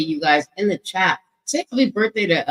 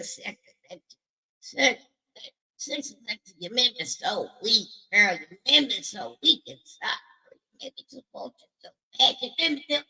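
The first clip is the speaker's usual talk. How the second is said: breathy flirt; 2 semitones higher, 6 dB quieter than usual. Pretend. Flirty soft teasing to viewer.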